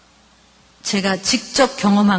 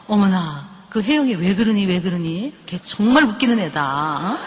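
sympathetic outrage; 4 semitones lower than usual. Retold or imitated. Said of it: "같이 막 흥분해주고".

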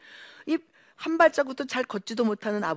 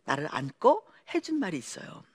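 normal talking voice

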